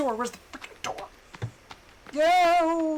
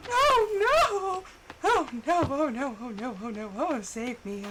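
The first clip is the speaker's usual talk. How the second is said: terrified gibbering. Real, not acted. Panicking as enemies attack.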